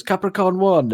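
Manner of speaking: put-on high, loud old-lady voice; Italian grandma saying the film title, high; imitating grandma. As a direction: pipe up like a proud granny. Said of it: "she goes".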